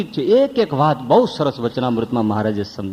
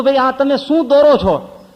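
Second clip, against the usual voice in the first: pained cry; 10 semitones higher than usual. Retold or imitated. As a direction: squeal at the needle's prick. Man crying out at tattoo needle.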